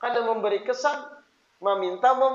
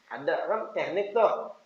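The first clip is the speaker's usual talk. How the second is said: ordinary talk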